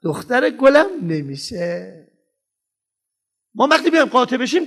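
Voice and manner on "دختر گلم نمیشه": slow, loving but firm no; kind but firm. Shown as a demonstration. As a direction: refuse tenderly without budging. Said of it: "هم محکمم". (مهربان و قاطع، آهسته)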